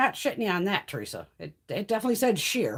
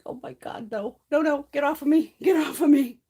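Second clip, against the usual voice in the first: louder, higher retold protest; mock yelp; 6 semitones higher, 8 dB louder than usual. Retelling the cat stepping on her back, louder mock protest. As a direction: act out pushing the cat off. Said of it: "I was like".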